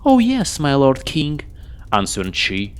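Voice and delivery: put-on high, cackling old witch voice. Witch sets the king her deadly condition, sly and menacing.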